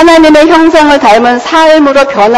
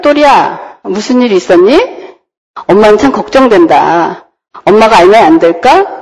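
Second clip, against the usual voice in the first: gentle I-message; 2 semitones lower than usual. Shown as a demonstration. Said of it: "그 아이 메시지 방법에는 뭐라고 돼 있냐면".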